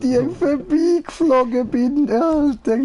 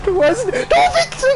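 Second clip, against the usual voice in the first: laughing shout; 14 semitones higher than usual. Real, not acted. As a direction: yell it through laughter. Winning race, laughing shout.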